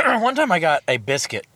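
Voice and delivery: throat clearing between words; coughing while talking; chesty cough. Real, not acted. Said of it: "I keep coughing in the mic".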